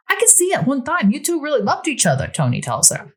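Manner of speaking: a hint of a wondering new boyfriend; lightly voiced Tony.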